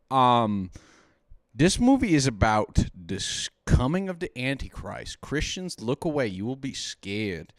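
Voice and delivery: tipsy, drinking while talking. Real, not acted. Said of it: "We're concerned for our buddy Chris".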